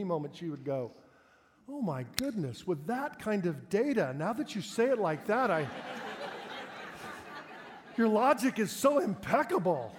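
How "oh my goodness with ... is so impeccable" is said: mock concession.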